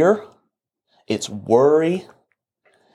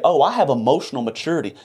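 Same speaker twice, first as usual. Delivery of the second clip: fast smug mock quote; quick sarcastic imitation; mocking claim; faster than usual. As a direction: parody someone bragging about maturity, quickly. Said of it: "all you people say".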